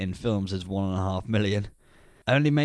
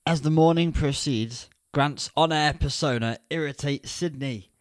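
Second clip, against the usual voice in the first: scripted synopsis, pitched a little brighter than chat, higher; plot summary read-out; 4 semitones higher than usual. Real, not acted. Podcaster taking over the plot slot, narration style. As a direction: read it out as a raised-pitch film blurb.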